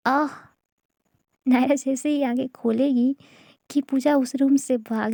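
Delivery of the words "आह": short cry of pain. A narrator's reading. Naira yelps when bitten, a short mild cry. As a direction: yelp as the bite lands. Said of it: "एक चीख ज़रूर निकलती है".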